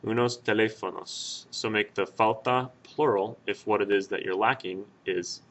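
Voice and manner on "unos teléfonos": slow example. Shown as a demonstration. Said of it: "You could say".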